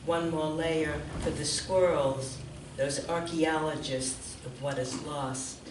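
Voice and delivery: measured poem recital with deliberate pauses; poetry reading. Real, not acted. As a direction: read it line by line, letting each image land. Reads poem aloud.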